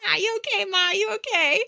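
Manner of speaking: mock-worried twins checking on mom; worried sons.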